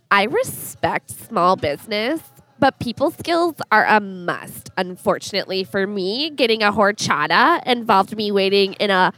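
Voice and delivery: put-on valley girl voice. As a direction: read it like a bitchy valley girl. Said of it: "read in a funny voice".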